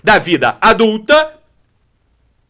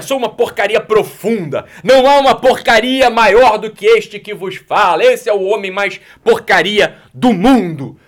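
slow, louder, hammed-up lament of being worthless; mock grand self-pity; 4 dB louder, slower than usual. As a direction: overplay the self-pity like a tragic confession. Mocking the listener's self-pity.

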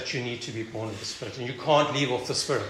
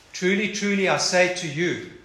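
solemn proclamation; 4 semitones higher, 5 dB louder than usual. Acted. Quoting Jesus' solemn words.

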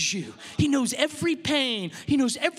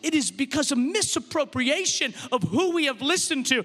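raised, driving preacher voice; forceful preaching; 4 semitones higher than usual. Real, not acted. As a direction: press it home to the congregation.

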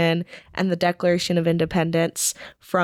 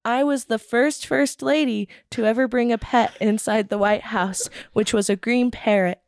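monotone school presentation; 4 semitones higher than usual. Pretend. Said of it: "I usually do it in my monotone voice".

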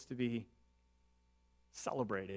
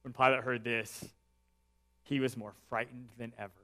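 softer and lower reading; hushed reflection; 3 semitones lower, 5 dB quieter than usual. Real, not acted. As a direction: let the verse sink in quietly. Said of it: "the most honest verses".

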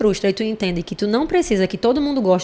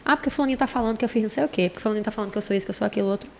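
put-on whiny kid; 2 semitones higher, 4 dB quieter, much faster than usual. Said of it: "Quando eles chegam assim, com muitas crises".

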